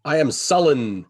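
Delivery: playful pout. Pretend. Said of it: "You're pouting".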